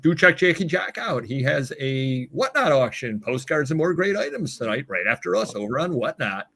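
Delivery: light ad-read delivery; smooth promo announcer read; commercial voice. Real, not acted. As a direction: plug it like a radio commercial. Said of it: "There's that commercial voice".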